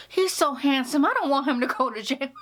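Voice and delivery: imitating mom's crush; mom gushing. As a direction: swoon over the handsome actor.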